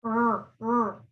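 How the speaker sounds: rrr with the tongue rolled too far, blocking air; overrolled R demo. Shown as a demonstration. Teacher demonstrates the wrong overrolled R, rrr rrr. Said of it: "if you roll your tongue too far".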